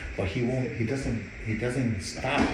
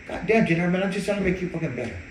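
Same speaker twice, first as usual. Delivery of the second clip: frustrated yell; 6 semitones higher, faster than usual. Retold or imitated. Arguing with his brother.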